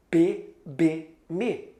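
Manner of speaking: P, B, me said as slow, separate syllables; first speech sounds. Shown as a demonstration. Teacher showing a child's first sounds, P, B, me drawn out separately. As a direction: lay out P, B, me one by one. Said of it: "ao emitir os primeiros sons, só fala".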